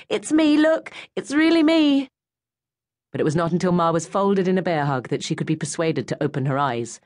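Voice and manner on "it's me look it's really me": put-on high girl's voice, louder; girl rushing to her mother; young girl. A narrator's reading. Narrator voices Goldie.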